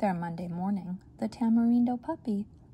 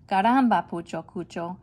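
frustrated exclamation; 7 dB louder than usual. Acted. Mother fed up with her sons, exclaiming loudly. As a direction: blurt it out fed up.

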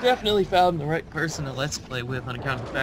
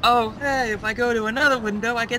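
put-on light southern accent, pitched up; 6 semitones higher than usual. Friend teasing about the game window, southern accent. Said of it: "you just need a southern accent".

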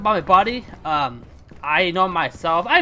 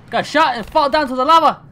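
laughing; 7 semitones higher, 7 dB louder than usual. Real, not acted. Laughs at own death.

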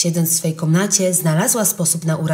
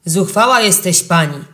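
indignant envoy; 4 dB louder than usual. Acted. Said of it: "oburzyli się niemieccy posłowie".

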